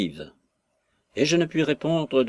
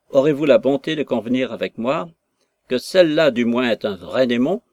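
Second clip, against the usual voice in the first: louder, mocking squire voice; scornful father baiting his daughter; sarcastic angry father; 4 dB louder than usual. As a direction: jab at her with sarcasm. Father mocks the aunt.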